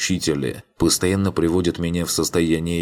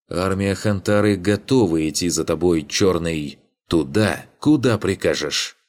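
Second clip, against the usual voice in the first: grave, ceremonious declaration; solemn voice. A narrator's reading. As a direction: pledge it like a sacred vow. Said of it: "торжественным голосом произнёс он".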